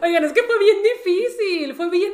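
slow, high tearful wail; hammed-up weepy voice; mock crying. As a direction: imitate a friend sobbing in relief. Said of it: "Reni estaba llore y llore".

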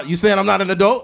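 high, fast indignant retort; mock offended. Retelling a woman's comeback, mock indignant. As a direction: act offended, quick and high. Retold quote in argument.

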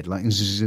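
buzzing z-, z- sound; demoing a singer's s as a buzz. Shown as a demonstration. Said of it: "sound a little bit like a Z".

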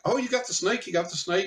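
squealing high-pitched excitement; excited girls. Retold or imitated. Excited girls in parking lot.

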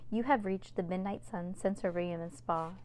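cool, smooth answering machine greeting; icy voice. Acted. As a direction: let every word go cold. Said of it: "icy voice".

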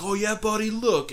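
high mock taunt; smug heckle. Fan pointing at the banners, high smug taunt. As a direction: point it out smugly. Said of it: "he's like".

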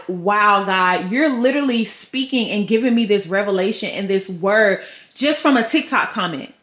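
understated wonder. Acted. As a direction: marvel to God in a low voice. Acting out awed reaction to revelation.

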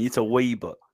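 a light British accent on wee book. Shown as a demonstration. Friend demonstrates it in a British accent. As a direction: show how a Brit says it. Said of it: "you gotta say it with the British accent".

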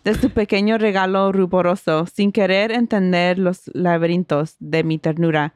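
measured Spanish poem recital; poem reading. Acted. Podcaster reading Spanish poem to co-host, recital. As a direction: read the verses aloud in a steady, sustained flow.

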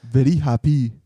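put-on unsure Scottish accent drifting toward Irish; wobbly Scottish accent. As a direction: have a rough go at Scottish. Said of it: "I was kinda going Scottish".

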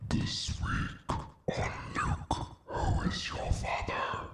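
hushed dramatic promo read; dramatic trailer voice. Shown as a demonstration. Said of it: "I wouldn't do such a hard R".

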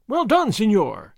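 slow, ringing praise; excited cry. Acted. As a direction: cheer him on. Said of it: "Señorita Lolita cried".

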